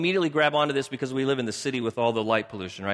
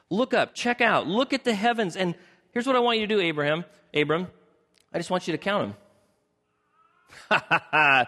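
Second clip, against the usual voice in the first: eager God; 4 semitones higher than usual. Acted. God urging Abram excitedly.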